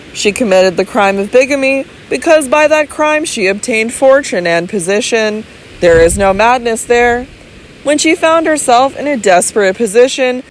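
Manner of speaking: calm medical man reasoning it through; measured physician. Acted. Physician reasoning calmly with Robert, lightly voiced doctor.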